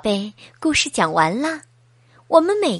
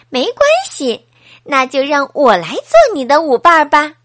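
kind offer; 6 dB louder than usual. Acted. Friend offers to dance.

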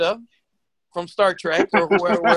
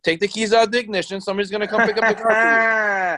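firm patrol cop, a bit raised; 3 semitones higher than usual. Acted. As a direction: talk him down like an officer. Cop role ordering.

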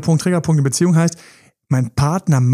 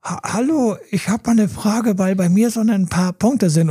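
higher, timid anonymous caller voice; disguised voice; 5 semitones higher than usual. Pretend. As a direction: fake a shy caller's voice, pitched up. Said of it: "mit verstellter Stimme so".

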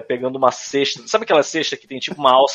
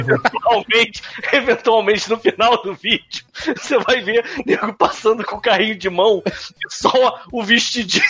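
laughing; 4 semitones higher than usual. Real, not acted. Cracking up telling a joke.

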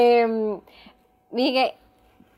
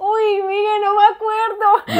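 sorpresa incrédula; 9 semitones higher, much slower than usual. Real, not acted. Se entera de su propia profecía.

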